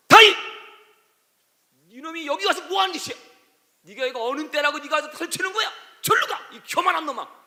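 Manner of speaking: furious elder brother chasing David off; angry elder brother shouting. Acted. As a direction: tear into him like an angry big brother. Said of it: "이렇게 외치는 거야".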